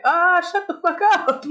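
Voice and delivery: high-pitched mock yell; retold yell back. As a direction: imitate hollering back at a neighbor. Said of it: "and I yelled back".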